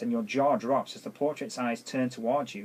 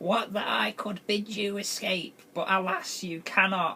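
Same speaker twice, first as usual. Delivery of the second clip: put-on high-pitched elderly woman character voice; 8 semitones higher than usual. Narrating the woman's voice addressing the stranger in a cursed place, in an old woman voice. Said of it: "Should do an old woman voice to that".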